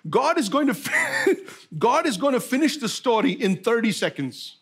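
chuckling through the line; laughing. Real, not acted. Preacher laughing at his own joke, chuckling. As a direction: laugh while telling the punchline.

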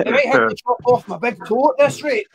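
lightly voiced doctor, breaking into laughter; Scottish doctor, laughing. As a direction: finish the grim news through a laugh. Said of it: "You could imagine the phone call".

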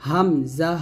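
"হামজা" said separately, without drawing out the final vowel; measured "হামজা", ending without a long pull; unstretched letter. Shown as a demonstration. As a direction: set "হামজা" apart, last syllable not held. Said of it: "টান দিবেন না".

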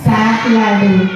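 સાત stressed and drawn out slowly; slow emphatic answer. Shown as a demonstration. Teacher answers her own quiz to the children, slow and emphatic. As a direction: lean on સાત, slow and clear. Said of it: "કેટલા આપ્યા?".

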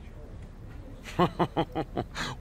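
long, drawn-out staccato chuckle; soft, slow string of ha-has; mock chuckle. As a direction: chuckle at the rival's dig. Scoffing at rival's joke.

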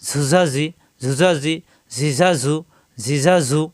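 ঝুঝা ঝি in short buzzing z beats; ঝু, ঝা, ঝি each brief, with a buzzed z; quick short vowels. Shown as a demonstration. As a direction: run ঝিঝা ঝু together without stretching. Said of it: "হারকাতের উচ্চারণ তাড়াতাড়ি".

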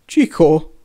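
loud, mildly stammered exclamation; hebegve. A narrator's reading. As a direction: blurt it out, lightly flustered. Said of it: "hebegte Hagrid". (hangosan, kissé hebegve)

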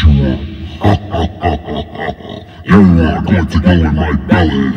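giant voice effect. Shown as a demonstration. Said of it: "make yourself sound like a giant".

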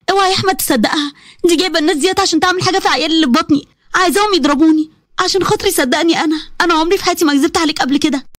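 a touch of desperate pleading; pleading wife. Acted. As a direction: warn him and beg to be believed. Maryam pleading.

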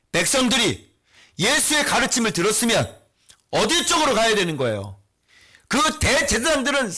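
emphatic, pressing pulpit delivery; forceful preaching. Acted. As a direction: press the argument on the congregation. Preacher continues forceful exposition. (힘주어 몰아가는 설교)

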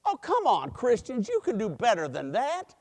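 lightly mimicked eye-rolling complaint; mock exasperation at a weak crowd; exasperated pastor. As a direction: chide them with a playful roll of the eyes. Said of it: "he rolled his eyes and he went".

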